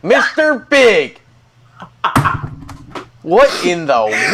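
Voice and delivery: stretched-out mock scolding; outraged wife. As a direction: draw out the name as a wife catching her husband. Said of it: "wait for his wife to show up".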